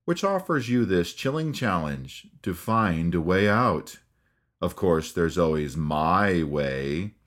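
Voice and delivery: slow, low, sinister ghost host; Paul Frees ghost host. Retold or imitated. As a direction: linger over every word, menacing. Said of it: "Paul continues with".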